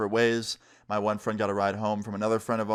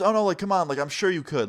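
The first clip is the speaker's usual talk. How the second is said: higher-pitched imitated coaxing; urging a reluctant kid along; coaxing stranger; 6 semitones higher than usual. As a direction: lightly act out a persuasive stranger.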